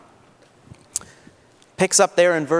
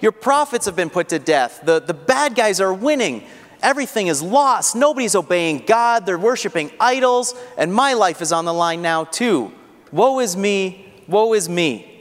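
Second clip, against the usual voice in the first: pouring his heart out; 3 semitones higher than usual. Retold or imitated. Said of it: "Elijah's pouring his heart out".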